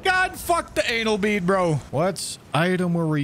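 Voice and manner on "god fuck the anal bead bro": high, slow drawn-out exasperated shout; exasperated yell. Real, not acted. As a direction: shout in disbelief. Exasperated at game item.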